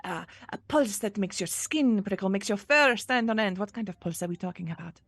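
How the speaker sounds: eager questioning with sudden lifts on key words; extremely excited. Acted. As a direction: relish each guess as you press for details. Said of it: "she's extremely excited".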